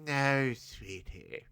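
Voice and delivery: slow, soft mid-Atlantic drawl; old-Hollywood mid-Atlantic accent. Retold or imitated. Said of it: "That's my mid-Atlantic accent".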